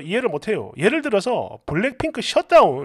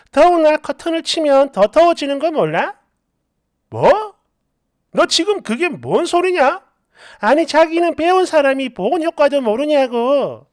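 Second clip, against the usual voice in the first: raised, incredulous questioning; indignant bickering; 3 semitones higher than usual. Acted. Wife scolding husband for drawing the curtains, indignant questioning. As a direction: challenge as if it were obvious.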